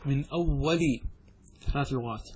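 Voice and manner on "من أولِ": "أول" ending in a short i; kasra on the lam. Shown as a demonstration. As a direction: say "أول" as awwali. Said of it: "بضم اللام وفتحها وكسرها".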